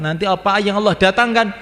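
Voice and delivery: high, loud preacher's climax; emphatic cry. Real, not acted. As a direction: lift it to a ringing peak.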